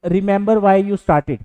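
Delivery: a very slow, deliberate quote; slow quoted motto. Retold or imitated. Reciting a reel motto to students, very slowly. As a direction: spell the motto out word by word. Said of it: "आप quotation देखते होंगे कि".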